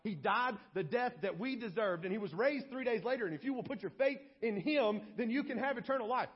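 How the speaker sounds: lightly acted rapid gospel pitch; mock sermon gathering pace and pitch; eager evangelizing. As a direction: rattle on with building urgency. Acted Paul eagerly preaching to guard.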